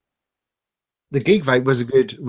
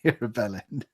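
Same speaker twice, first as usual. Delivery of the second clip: laughing; 3 semitones lower, 7 dB quieter than usual. Real, not acted. Laughing while reading insult.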